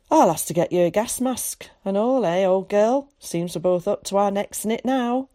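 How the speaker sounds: lightly voiced old farmer talking to his mare; gruff old man to his horse. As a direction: chat to the old nag like a friend. Tom talks fondly to his horse.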